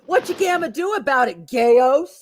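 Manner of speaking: menacing taunt; monster taunt voice. Retold or imitated. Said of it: "fan art where he's going".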